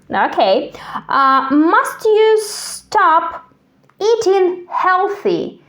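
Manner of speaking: ordinary delivery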